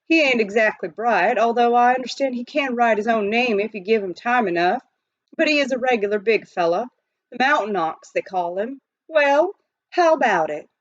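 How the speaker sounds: lightly voiced old miner; gruff old miner. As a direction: brag like a rough prospector. Pitch Pine Billy talking.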